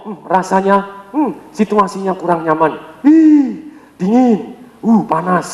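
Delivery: slow, musing, with a sharp ih; feeling-type speaker. Shown as a demonstration. Trainer playing a feeling-type person describing discomfort. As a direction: feel each word out, react to the cold and heat. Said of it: "Contohnya dia ngomong".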